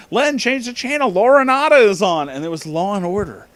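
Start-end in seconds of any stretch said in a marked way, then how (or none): 0.1-2.3 put-on very loud, very high, heavy New England accent. Retelling a grandmother telling someone to change the channel: thick New England accent. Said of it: "she had that very thick New England accent".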